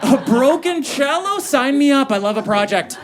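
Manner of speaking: high, breathless dreamy gushing; hammed-up lovestruck girlfriend voice; mock swooning girlfriend. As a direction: gush like she's smitten with a fixer-upper. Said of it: "her immediate reaction was".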